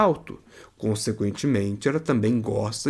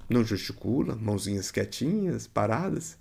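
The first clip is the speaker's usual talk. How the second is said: softer, hushed demo of still hands; quiet; 3 semitones lower, 6 dB quieter than usual. Shown as a demonstration. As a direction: drop the voice to show stillness. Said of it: "convém que você silencie as suas mãos".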